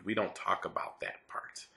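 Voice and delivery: soft whispered joke; hushed aside. Real, not acted. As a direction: confide it under your breath. Joking aside.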